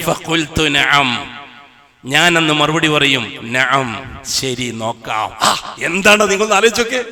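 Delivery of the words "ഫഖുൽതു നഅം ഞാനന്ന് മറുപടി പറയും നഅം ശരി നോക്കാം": low, slow and much softer; quiet calm reply. Acted. The Prophet calmly assuring the pleading people, very soft. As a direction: answer gently and calmly. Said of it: "അഷ്റഫുൽ ഖൽക്ക് പറയുന്ന വിഷയം".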